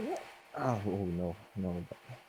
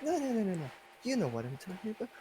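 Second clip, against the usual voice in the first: put-on girly voice; 6 dB quieter, faster than usual. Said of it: "Why are you talking like this?".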